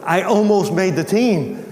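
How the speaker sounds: retold schoolboy excitement; excited student. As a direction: burst in with big news. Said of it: "he was all excited".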